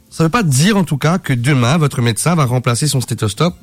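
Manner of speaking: tripping over words with a sore tongue; stumbling speech from a bitten tongue. Real, not acted. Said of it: "Je me suis mordu la langue".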